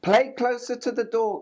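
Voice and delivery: high motherly hen; clucking hen. A narrator's reading. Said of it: "clucked Hen".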